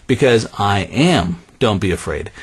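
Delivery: calm the frightened disciples; gentle Jesus. Acted. Jesus voiced gently in sermon.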